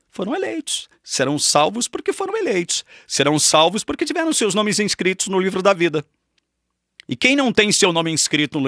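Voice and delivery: fervent sermon delivery; emphatic preaching. Acted. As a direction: proclaim it from the pulpit. Preaching at full force.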